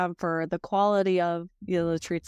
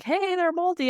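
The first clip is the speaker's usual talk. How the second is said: higher mock whine of a customer; mock customer complaint; 11 semitones higher than usual. Customer from Florida complaining about moldy treats, mock whiny higher voice. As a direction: play the annoyed buyer, pitched up. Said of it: "they would get 'em and be like".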